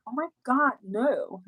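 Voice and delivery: put-on high, girly oh my God no; scared girly voice. Fending off guys outside the club, a scared girly act. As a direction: play the frightened young girl. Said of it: "I was talking like that".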